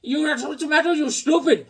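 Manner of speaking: high mocking insult; Bobby voice. Mimicking Bobby insulting him over the intercom. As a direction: squeak the taunt up high. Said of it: "I said".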